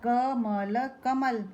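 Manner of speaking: क म ल कमल, letters spoken slowly one by one, then joined; slow blending. Shown as a demonstration. Teacher sounding out कमल slowly for children. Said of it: "तीन वर्णों के शब्द द्वारा".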